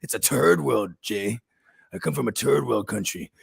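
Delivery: "turd" for third, imitating dad; dad's pronunciation, "turd" with no TH sound. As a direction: say "turd" with a hard T instead of TH. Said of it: "sounds like he's saying turd 'cause he can't say the H and T H".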